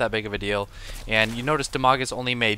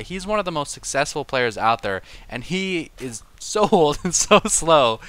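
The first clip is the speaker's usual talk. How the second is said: excited gushing; 4 semitones higher, 4 dB louder than usual. Real, not acted. Gushing about a slow old player.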